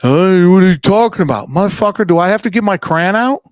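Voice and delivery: mock tough bouncer. Bouncer confronting drunk patron.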